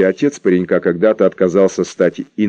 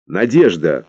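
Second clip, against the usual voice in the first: icy voice; 3 semitones lower, slower than usual. Acted. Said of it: "ледяным голосом произнесла".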